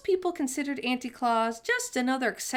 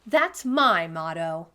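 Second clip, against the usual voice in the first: smug motto; 4 semitones lower, 5 dB louder, slower than usual. Acted. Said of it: "sniffed Sophie".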